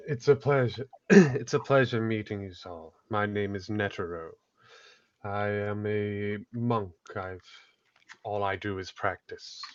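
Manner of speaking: lightly voiced monk, sinking low; Netero, reserved monk. Monk greets new companions, understated and slowing. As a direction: introduce yourself simply, trailing down softly.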